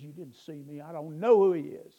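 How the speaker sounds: acted denial, building to a loud outburst; imitating Peter's heated denial; cursing denial. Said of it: "He cusses and says".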